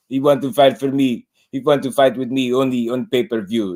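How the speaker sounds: mock Eastern European accent, broken English; Loma's accent. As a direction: mimic Loma's halting English. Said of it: "Then he said".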